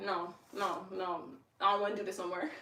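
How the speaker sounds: reluctant inner voice. Retold or imitated. Her inner doubter refusing the handstand, soft and whiny. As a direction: mutter it like the part of you giving up. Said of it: "I'm in my mind and I'm shaking my head like".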